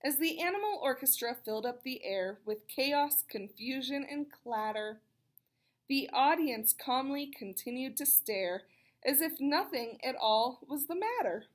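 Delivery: lilting rhyming read-aloud; storybook rhyme voice; reading to children. A narrator's reading. Reads rhyming picture book.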